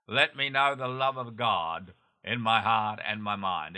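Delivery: earnest prayer read for listeners to repeat; steady, sincere prayer voice; led prayer. Acted. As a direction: pray it aloud so they can follow. Leads the sinner's prayer.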